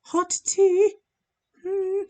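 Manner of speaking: mock surprise. Real, not acted. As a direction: pop up in pitch, playfully surprised.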